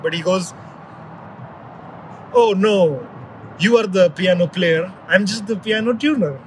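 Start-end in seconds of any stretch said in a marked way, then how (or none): 2.3-6.4 put-on light, imperfect Russian accent. Retelling the piano tuner's modest reply, lightly imitated Russian accent. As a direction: attempt a mild mock Russian accent. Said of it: "I wish I could do a better Russian accent".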